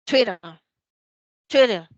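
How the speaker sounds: loud model "Twitter", sounded like "twidder"; American "Twitter", quick tap for the tt; American flapped T. Shown as a demonstration. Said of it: "en inglés americano esa T suena como una R".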